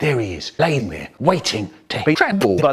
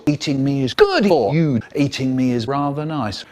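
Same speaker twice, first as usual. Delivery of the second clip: lightly spooky hamburger; a hint of a creepy tempter. Talking hamburger tempting the runner, lightly spooky. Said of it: "talking in this spooky voice".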